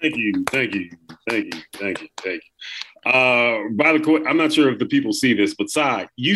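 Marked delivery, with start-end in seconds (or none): 0.0-3.1 softer and lower, trailing into a whisper; fading thank yous. Acted. The guest greets the hosts, fading to a whisper. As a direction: thank a crowd as it dies away. Guest fakes crowd humility.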